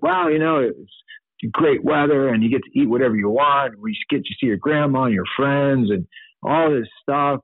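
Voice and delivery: lightly voiced eager layperson; imitating enthusiastic people. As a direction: play someone gushing casually about heaven. Imitates people describing heaven.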